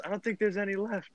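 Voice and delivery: imitating a childlike complaint, high and soft; small, high voice of a helpless kid; little child. Drunk friend at an empty cooler, childlike. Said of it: "sounded like a little child".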